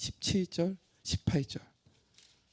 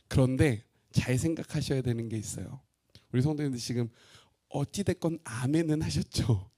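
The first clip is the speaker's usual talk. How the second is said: ordinary talk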